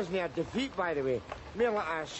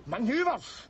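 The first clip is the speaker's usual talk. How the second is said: indignant repeat; 3 semitones higher than usual. Acted. Drunk Scot rounding on the soldier who said manoeuvres, indignant. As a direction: throw the word "Manoeuvres" back at him, offended.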